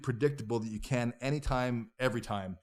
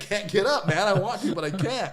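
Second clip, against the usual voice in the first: dazed plea; 8 semitones higher, 8 dB louder than usual. Retold or imitated. Concussed, telling friends he can't.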